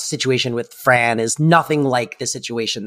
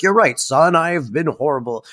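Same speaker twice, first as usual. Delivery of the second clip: lightly voiced apology; mock repentant father; 3 semitones higher than usual. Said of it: "to be like".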